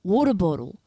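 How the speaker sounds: loud put-on Aussie "water"; faked Australian vowels on "water"; Australian accent. Shown as a demonstration. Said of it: "I know how to say crikey and water".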